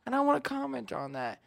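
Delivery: imitating a listener. Podcast host mimicking a listener who relates, eager. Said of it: "you're like".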